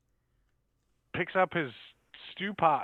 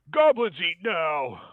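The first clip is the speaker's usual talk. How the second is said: slow, loud gruff goblin bark; 3 semitones higher, 8 dB louder, slower than usual. Acted. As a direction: growl it like a hungry goblin. GM voices goblin speaking to player.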